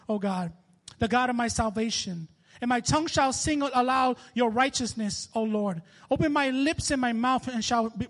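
declamatory, penitent Bible reading; preacher's measured, pleading recitation; psalm reading. Acted. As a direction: read the psalm out as an earnest prayer.

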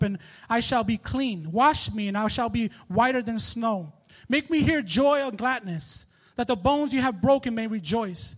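declamatory, penitent Bible reading; preacher's measured, pleading recitation; psalm reading. Acted. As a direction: read the psalm out as an earnest prayer. Reads the penitent psalm aloud.

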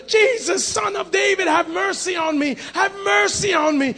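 high, pleading mock scream. Preacher voicing blind man calling Jesus, high mock yell. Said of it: "he screamed out louder".

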